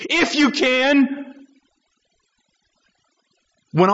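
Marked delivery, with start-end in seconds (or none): 0.1-1.5 IF stretched and lifted, slow; slow, pointed doubt; stress on IF. Shown as a demonstration. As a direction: linger on "If" in "If you can". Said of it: "has a qualification to it".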